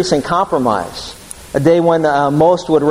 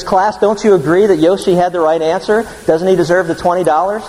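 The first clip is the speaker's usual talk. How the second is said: a touch of excitement, slightly higher pitch; mildly excited teacher; 3 semitones higher than usual. Retold or imitated. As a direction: lightly imitate a teacher rallying the class. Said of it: "she gets all excited".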